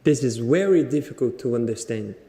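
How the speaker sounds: learner's second Indian accent try; musical Indian accent. Shown as a demonstration. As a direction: repeat it with the Indian melody. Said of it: "Repete mais uma vez com essa melodia".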